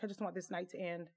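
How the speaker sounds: inner thought. Retold or imitated. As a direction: quietly voice a weary private wish to leave. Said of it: "in my mind".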